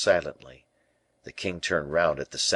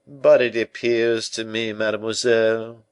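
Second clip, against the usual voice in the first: louder, higher interjection; protesting Colbert; 4 semitones higher, 6 dB louder than usual. A narrator's reading. Colbert ventures a protest to La Valliere, insistent. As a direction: push in with a raised voice.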